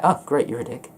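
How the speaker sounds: snide, passive-aggressive tone. Retold or imitated. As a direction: say it with a sneer. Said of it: "I don't mean it in a sort of".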